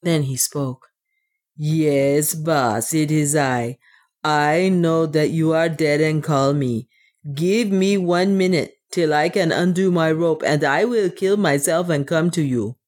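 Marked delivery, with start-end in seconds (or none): 1.6-12.8 put-on lightly accented dwarf addressing his master; measured, earnest dwarf voice, slightly foreign; resigned dwarf. Otter answers what he thinks is his dead master, resigned dwarf voice.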